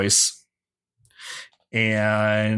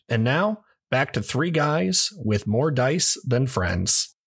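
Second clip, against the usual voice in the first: podcast announcer. Acted. Podcast outro and recap intro.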